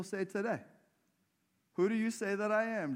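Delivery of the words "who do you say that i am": higher, louder, pressing the I; ringing challenge, stress on I; louder Jesus question. Retold or imitated. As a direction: put it to them boldly. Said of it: "Jesus asked his disciples".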